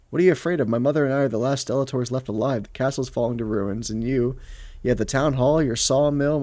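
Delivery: animated read-aloud with lightly acted dialogue; story narration. A narrator's reading. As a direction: narrate a tense family confrontation.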